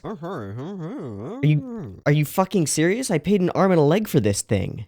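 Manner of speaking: mildly outraged disbelief on a complaint call; acted exasperation, incredulous customer; indignant customer. Customer protesting to support about a useless stand, indignant.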